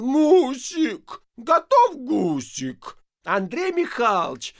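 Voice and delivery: very high, loud wail, stretched slow; yelling. A narrator's reading. Hungry engineer wailing for his wife about the goose. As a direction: howl it out, unable to hold back. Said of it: "не в силах сдержать себя завопил".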